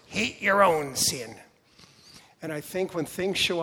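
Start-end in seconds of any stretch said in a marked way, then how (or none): 0.1-1.4 nasal, slow imitation of a singer. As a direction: pinch it through the nose. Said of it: "in his own nasal voice".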